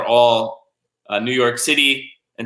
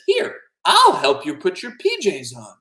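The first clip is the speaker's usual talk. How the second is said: higher, slower kindly offer; helpful octopus; 5 semitones higher than usual. Acted. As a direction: offer help sweetly, taking your time.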